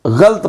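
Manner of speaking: गलत as ghalt, one syllable; common mispronunciation. Shown as a demonstration. Teacher showing how many people read it, गलत as ghalt. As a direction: drop the vowel after ल in गलत, ghalt. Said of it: "बहुत सारे लोग जो हैं वो".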